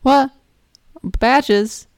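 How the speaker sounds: put-on high, slow child voice; little kid voice. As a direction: sound like a small eager boy. Kid Billy answering bunny.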